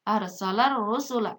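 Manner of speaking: "arsalar rusula" joined by a held R; silent lam. Shown as a demonstration. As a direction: read "arsalar rusula" with no L before the R. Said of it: "ini juga alif lamnya tidak dibaca".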